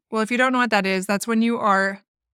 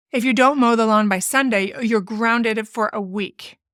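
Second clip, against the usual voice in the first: threatening. Retold or imitated. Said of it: "when you raise your voice or make threats".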